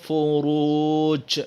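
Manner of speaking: فُرُوجٍ with a bounced final ج, recited; qalqalah bounce. Shown as a demonstration. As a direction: recite فُرُوجٍ with a clear echo on the last ج. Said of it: "kan ada detakan tersebut".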